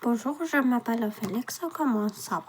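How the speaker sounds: imitating Félix. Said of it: "Il y a aussi Bonjan que j'arrive à refaire".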